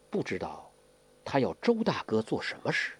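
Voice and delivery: softly voiced wondering; low voice. A narrator's reading. Guo Jing wonders about Brother Zhou's fate, in a low voice. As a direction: ask it low and soft, opening very quietly. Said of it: "郭靖低声地说".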